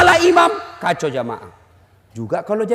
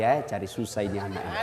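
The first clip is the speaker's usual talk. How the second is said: low, hushed aside to himself; inner thought; 11 dB quieter than usual. Retold or imitated. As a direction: mutter it privately, low and quiet. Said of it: "Ku bilang dalam hati". (bergumam pelan dalam hati)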